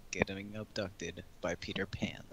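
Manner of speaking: slow whispered card read. Acted. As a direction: breathe the words out slowly. Reads card slowly.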